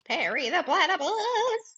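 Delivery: slow, high villain voice; Doofenshmirtz voice. Retold or imitated. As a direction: drawl it like a cartoon villain. Quoting Doofenshmirtz.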